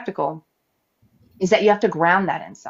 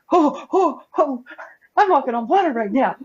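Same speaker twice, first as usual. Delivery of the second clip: amazed Peter; 6 semitones higher than usual. Retold or imitated. Peter voiced in retold scene.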